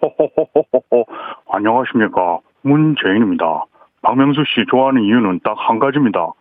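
a hint of a gentle politician; Moon Jae-in impression. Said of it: "문재인 전 대통령님 한번 들어보겠습니다".

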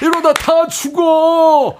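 high, slow shouting grandpa voice; very old man. Shown as a demonstration. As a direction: redo the grandfather's desperate cry. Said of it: "할아버지가 제일 쉬웠습니다". (느리게 외치는 할아버지 목소리)

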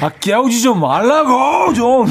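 loud, high, slow grumbling; annoyed yell. Retold or imitated. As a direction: yell at mom to stop. Son yelling at mom.

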